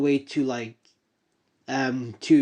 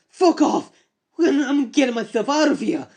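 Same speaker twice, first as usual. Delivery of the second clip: high, loud snarling yell; angry shout; 9 semitones higher, 3 dB louder than usual. Acted. Hero runs off yelling at the others, high angry shout. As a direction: bark it and bolt.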